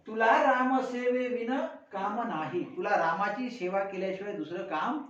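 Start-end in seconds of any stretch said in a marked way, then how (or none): 0.1-2.6 measured, slow recitation of the verse; teacher reciting a poem line slowly; slow poem recital. Acted. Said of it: "दुसऱ्या ओळीत काय म्हणते".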